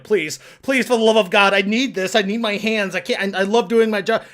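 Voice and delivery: hammed-up desperate begging; desperate pleading. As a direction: plead for your career like it's ending. Strange pleading on phone.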